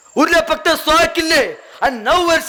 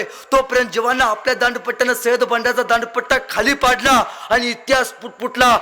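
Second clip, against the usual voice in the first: usual speaking voice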